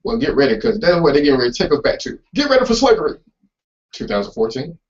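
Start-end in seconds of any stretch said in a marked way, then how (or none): 2.3-4.8 hard sell ad. Pretend. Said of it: "that's my commercial voice".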